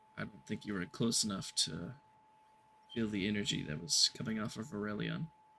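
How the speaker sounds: very quiet, confiding whisper, close to the ear. Narrating a scene, a character leans in close to the player: whispering. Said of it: "to the point where he can kind of whisper to you".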